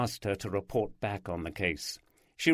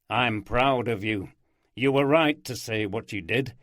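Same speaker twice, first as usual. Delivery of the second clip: warmer, livelier character voices; character dialogue; 5 semitones higher, 3 dB louder than usual. Acted. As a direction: voice the detectives' chat. Oldroyd and Steph talk in car.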